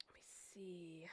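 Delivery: slow whisper to herself; whispering while digging through her phone. Real, not acted. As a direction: murmur it under the breath while searching.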